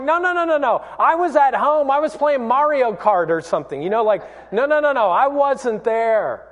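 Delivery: high, hurried string of protests; flustered denial. Retold or imitated. Peter making excuses to his accuser, high flustered denial. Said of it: "He's like".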